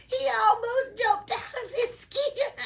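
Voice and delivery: high, loud elf talking through laughter; laughing elf. Acted. Elf laughing at the scared iguana, high and loud. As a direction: crack up while you say it.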